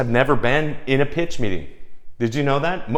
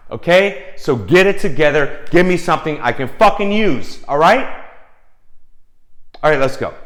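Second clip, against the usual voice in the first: yelling photographer; 2 semitones higher, 4 dB louder than usual. Retold or imitated. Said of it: "starts yelling at me".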